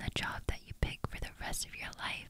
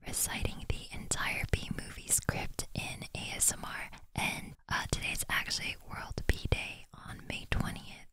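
ASMR whisper; 3 dB louder than usual. Real, not acted. Host greets viewers in an ASMR whisper. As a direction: breathe every word in a hush.

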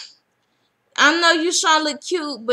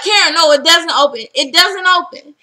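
mock urgent call; 2 semitones higher, 6 dB louder than usual. Drita calls out to Karen at the plastic door, louder and urgent. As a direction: stop her at the door. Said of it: "Drita's like".

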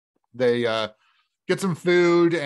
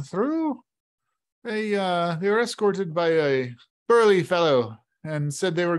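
a lightly raised, folksy tavern keeper; easygoing barkeep sharing local gossip; innkeeper voice. Acted. Innkeeper tells travellers about the lasses, folksy voice.

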